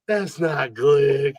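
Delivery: lightly voiced slow stoner; stoned drunk friends. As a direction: drag it out, a little drunk. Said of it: "his fucking stone drunk friends".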